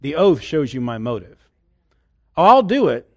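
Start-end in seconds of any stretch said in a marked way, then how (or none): 2.4-3.1 reluctant yes. Retold or imitated. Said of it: "you can hear it in somebody's voice".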